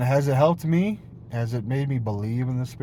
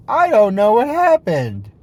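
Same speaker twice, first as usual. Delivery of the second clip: higher, louder stunned cry; mock bewilderment; 9 semitones higher, 11 dB louder than usual. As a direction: blurt it out dazed and shaken. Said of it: "and you're like".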